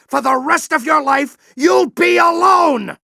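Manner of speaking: shouted warning. Acted. General yelling that Ratchet will be alone forever. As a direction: throw the warning at him.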